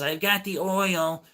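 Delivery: high, slow, drawn-out mimicry; imitating old lady. Old lady phoning neighbor with news, mimicked high and slow. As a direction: stretch it out in her high voice. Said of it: "the next day she calls".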